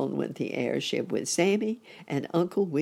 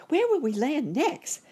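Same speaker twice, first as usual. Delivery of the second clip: put-on high, loud child voice; curious boy rabbit; 12 semitones higher, 5 dB louder than usual. A narrator's reading. Boy rabbit asking where they will land, high child voice. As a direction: ask high and excited as a boy.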